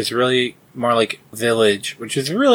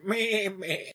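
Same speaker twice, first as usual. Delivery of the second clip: squeaky voice; 7 semitones higher, 12 dB quieter than usual. Acted. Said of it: "What's my character voice?".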